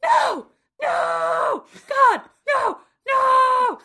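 high, loud hammed-up wail of no; mock wailing. Malta hearing her baby can't be saved, hammed-up wail. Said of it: "to which Malta says".

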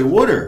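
"water" said as "wooder"; local white pronunciation. Retold or imitated. White woman expects the local accent, "water" as "wooder". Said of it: "like a white person who from here".

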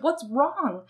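high-pitched worried question; mock upset mom asking; imitated tearful mother. Mother to crying child, imitated tearful question. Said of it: "she's in tears".

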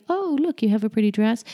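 high patronizing coo on the opening; mock gushing, talking down to a child; mean, patronizing. Better not said to a little girl, patronizing. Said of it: "I keep saying it in that really mean tone of voice".

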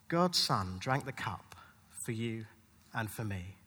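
unvoiced, hushed whisper. Preacher telling of the cross in the dark, whispering. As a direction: let it drop to a whisper in the dark.

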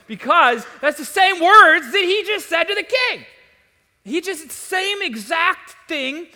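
high, loud, emphatic preaching; preaching at the peak of passion; rising intensity. Real, not acted. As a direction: drive the point home at full force. Preacher building to emphatic point.

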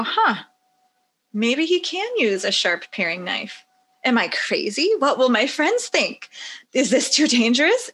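mildly acted wondering, rising into worried questions; self-doubting parent. Parent eyeing a five-year-old with a knife, mildly acted doubt. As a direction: think aloud as a hesitant parent.

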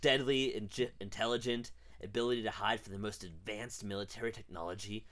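lightly voiced gruff military man; Hoskins impression.

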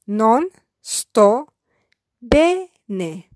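Non sto, a pause, then bene apart; syllabified. Shown as a demonstration. Teacher splitting Non sto bene for beginners. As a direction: break Non sto bene into two chunks. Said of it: "I will syllabify each sentence".

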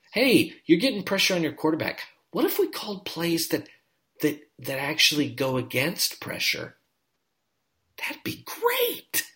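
high mock inner voice aside; hushed sarcastic aside voice; Gaffigan bit. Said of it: "I feel like I'm doing a Gaffigan bit here".

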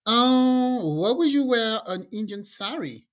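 drawn-out "oh" into an exasperated question; mock indignant objection. Bride to friend about the sari, indignant.

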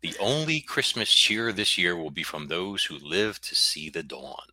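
dramatic book blurb read; narrating voice. Acted. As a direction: read it like a movie trailer. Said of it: "I have to do my narrating voice".

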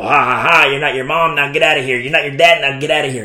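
jeering taunt with a fake ha-ha; mock abrasive. Shown as a demonstration. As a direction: rub it in, as a mocking demonstration. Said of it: "to sound abrasive to you like".

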